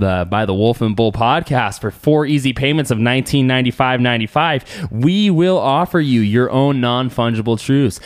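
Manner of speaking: loud salesy infomercial pitch; home shopping host. Pretend. Mock podcast product pitch.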